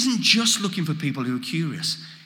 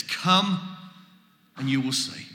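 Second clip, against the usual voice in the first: gentle invitation; 3 semitones lower than usual. Acted. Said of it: "Jesus' beautiful response".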